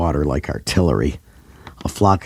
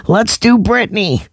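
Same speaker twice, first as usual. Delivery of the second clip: high, loud eager shout; excited scream; 3 dB louder than usual. A narrator's reading. Tiffany rallying the band, high excited shout. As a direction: scream it like a fan.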